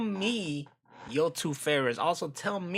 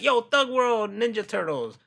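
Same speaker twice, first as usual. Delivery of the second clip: shouting out; 8 semitones higher, 6 dB louder than usual. Retold or imitated. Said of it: "be like".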